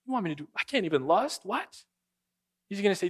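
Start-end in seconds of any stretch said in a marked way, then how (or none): 0.1-1.9 mock disbelief. Mock listener reacting to command.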